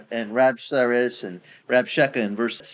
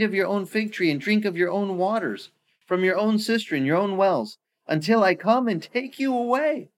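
higher, coaxing braggart voice; bragging bully; 4 semitones higher than usual. Retold or imitated. Bully bragging to lure city out, pitched-up coaxing. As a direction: lure them out with promises. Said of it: "this bully starts bragging".

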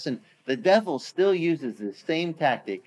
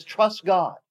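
jeering bully; 5 semitones higher than usual. Retold or imitated. Bully mocking the king's words, high sneer. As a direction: spit out "Trust God" as a joke. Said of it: "The bully is back".

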